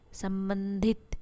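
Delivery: संबंधित drawn out syllable by syllable, very slow; slow syllable demo. Shown as a demonstration. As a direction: stretch संबंधित out slowly so each part is heard. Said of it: "ध्यान से अगर उच्चारण कीजिएगा आप".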